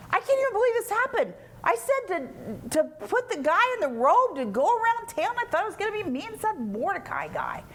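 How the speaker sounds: high-pitched, put-out griping; hammed-up disbelief, complaining to the wife; mock disgusted complaint. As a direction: whine it, pitched well up. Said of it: "He was so disgusted".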